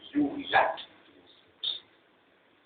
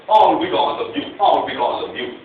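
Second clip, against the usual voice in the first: retold shout; 2 semitones higher, 6 dB louder than usual. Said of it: "Shout back at my daughter".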